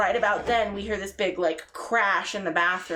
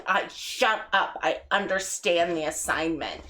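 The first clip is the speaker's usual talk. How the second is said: mock drunk insistence. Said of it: "your eyes weren't even opening".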